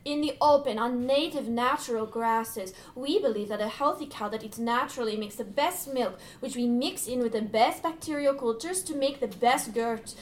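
earnest, measured plea for the product; unapologetically sincere. Acted. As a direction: make your case with total sincerity. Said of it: "They are unapologetically sincere".

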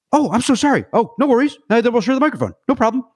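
mock apologetic Billy. Billy backs off immediately.

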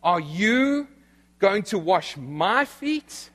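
slow, incredulous question with YOU and MY stressed; Peter's pride, drawn out into a rising question; proud disbelief. Acted. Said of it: "notice is Peter's pride".

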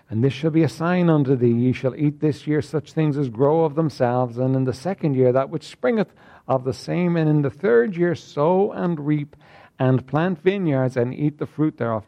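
measured King James reading; solemn scripture reading to the congregation. Acted. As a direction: read the verses out with weight. Reads scripture aloud.

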